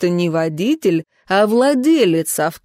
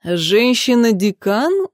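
surprised; 2 semitones higher, slower than usual. Acted. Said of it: "удивился тот".

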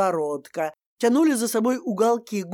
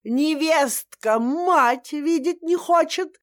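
ор; 6 semitones higher, slower than usual. Acted. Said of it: "заорала она ещё громче".

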